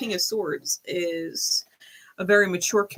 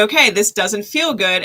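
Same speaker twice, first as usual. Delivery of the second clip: firm retold statement; 7 dB louder than usual. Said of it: "And then I had to say".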